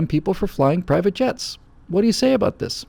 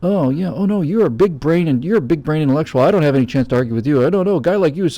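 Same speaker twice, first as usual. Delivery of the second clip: sneering snark; 3 dB louder than usual. Shown as a demonstration. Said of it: "Snark would be like".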